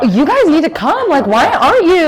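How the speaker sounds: high, loud urging call to come along; urging coach. Retold or imitated. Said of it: "Coach Fairbanks was like".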